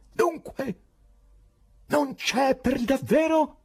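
high, loud, severe demand; stern shout. Acted. The irritated professor shouts sternly at Berlioz. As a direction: snap at them like an angry madman. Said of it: "si irritò e gridò con severità".

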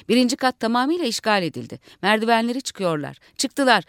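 announcer reading the news, growing urgent; live report as the madmen storm in; radio announcer. Acted.

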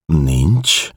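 Nincs lifted into a rising, doubting question. Acted. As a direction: Nincs asked back with a rise, lightly in another voice. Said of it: "kérdezte Schwarz".

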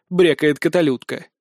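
ordinary delivery, nothing marked

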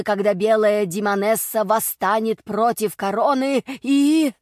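slow, solemn prophecy building up; prophetic trance voice. Acted. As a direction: intone it as if seeing visions. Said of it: "как в бреду".

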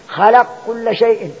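slow recitation of خلق كل شيء, the قاف merged into the كاف; tajweed merging demo; merged qaf into kaf. Shown as a demonstration. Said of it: "وأظهر".

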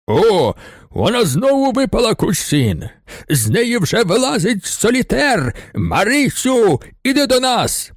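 a rowdy lodger shouts down into the courtyard; rowdy bass calling. A narrator's reading. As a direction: yell rowdily from an upper window. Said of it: "Вокульський почув сильний бас".

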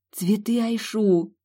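breathless delighted whisper; excited whisper. Acted. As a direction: whisper it in awe, slowly. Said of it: "восторженно прошептала я".

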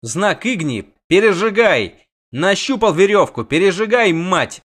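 high, loud, desperate; urgent shout. Acted. Yennefer urges Geralt to burn the rope, loud and desperate. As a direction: push the order through panic. Urgent orders under pain.

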